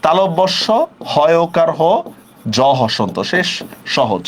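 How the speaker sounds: সহজ taught as "sho-hoj", letter by letter; teacher's broken-down spelling of সহজ with closed second vowel; pronunciation spelled out. Shown as a demonstration. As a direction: spell out সহজ piece by piece, closing on a rounded "ho". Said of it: "সহজ শব্দের উচ্চারণটা কি হবে".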